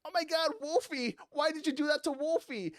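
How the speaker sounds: put-on high, whining child outrage; mock bratty wail; upset kid. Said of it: "the kid's just like".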